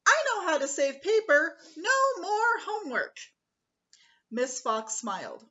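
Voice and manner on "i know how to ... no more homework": loud, high eager call. Acted. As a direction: call out cheekily. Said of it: "Squirrel called out".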